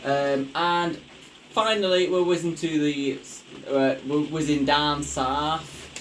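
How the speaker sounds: lightly posh, slow and lifted; a hint of a posh southerner. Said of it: "You don't have to do it a posh voice".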